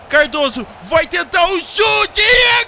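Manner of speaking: long high goal scream; explosive goal commentary. Acted. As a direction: yell the goal like a narrator. Second goal scored.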